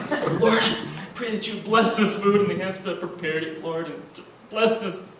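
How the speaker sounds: hammed-up earnest prayer through laughter; mock prayer. Comic praying to the Lord for a carrot-stick miracle, in a mock-earnest voice. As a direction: pray over the Cheetos with mock fervor.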